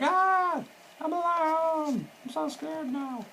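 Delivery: tiny high falsetto wail, drawn out; mock scared. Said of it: "and then he's like".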